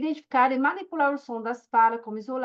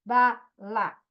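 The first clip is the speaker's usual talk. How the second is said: "Ba lá" com pausa entre as sílabas; junção de sílabas; 3 semitones lower than usual. Shown as a demonstration. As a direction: diga "Ba", pare, depois "lá". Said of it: "combinar sílabas para formar novas palavras". ("Ba lá" pausado, sílaba por sílaba)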